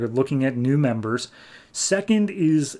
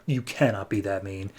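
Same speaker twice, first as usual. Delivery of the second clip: pleading; 4 semitones lower, 6 dB quieter than usual. Retold or imitated. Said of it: "Orm's pleading with him".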